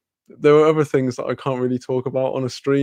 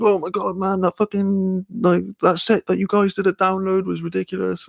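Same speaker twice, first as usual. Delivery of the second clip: high-pitched gushing fan; imitating a starstruck fan, voice pitched up; geeking out; 6 semitones higher than usual. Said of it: "geeking out big time".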